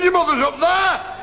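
high, loud and slowed; hammed-up dad declaring, unhurried; mock solemn announcement. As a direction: boom it out like a pronouncement. Father points heavenwards.

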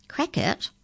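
high, puzzled echo; questioning repeat. A narrator's reading. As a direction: echo the strange word back in question. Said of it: "repeated the incisor".

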